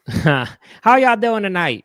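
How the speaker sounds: drawn-out mock emcee hello; imitating greeting. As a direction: repeat the producer's greeting, stretched and hammed. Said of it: "You know what that's from?".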